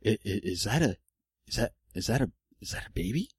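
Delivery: stunned disbelief. Retold or imitated. Wife stunned at ultrasound screen.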